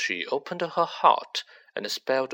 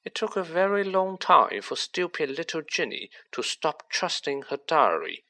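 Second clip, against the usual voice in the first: Riddle, cold and smug; 6 semitones higher than usual. Acted. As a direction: let a cold confidence creep in under a light voice. Riddle's voice in the story.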